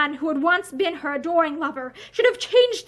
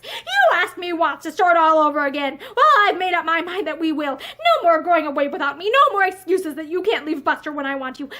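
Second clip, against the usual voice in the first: angry; 4 dB louder than usual. Acted. Husband lays down the law.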